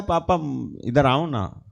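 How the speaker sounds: lightly voiced child lovingly asking papa over; affectionate child's call. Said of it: "वो प्यार से कहता है".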